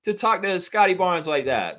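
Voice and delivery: mock confrontation, voice cracking high; indignant outburst. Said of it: "That's what I would say".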